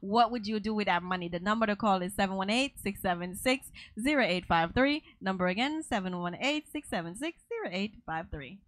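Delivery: radio host read. Acted. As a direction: read the number like a station promo. Radio host giving call-in number.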